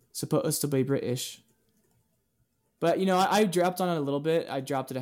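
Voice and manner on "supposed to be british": typing aloud. Real, not acted. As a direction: stretch the syllables while typing it in.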